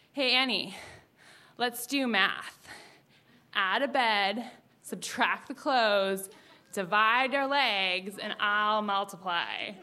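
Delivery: slow, lightly voiced cheesy flirt; smooth pickup line. Classmate Caleb flirting across class, slow mock-smooth. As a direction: lay the line on slow like a would-be charmer.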